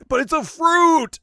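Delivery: very high, loud squeal of delight; excited Beerus. Retold or imitated. Beerus discovering strawberries, shrieking with joy. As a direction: shriek with pure glee over a fruit. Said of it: "And like".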